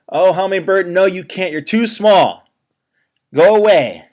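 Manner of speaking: high, frantic animal voices; panicked forest animals. Acted. Forest animals crying out in the sudden dark, panicked. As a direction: squeal it out like scared little critters.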